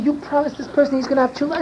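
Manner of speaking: high, forceful commanding voice; retold commanding yell. Yelling at Rav Moshe to keep his promise. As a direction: command him like you won't take no. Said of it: "I started yelling and commanding".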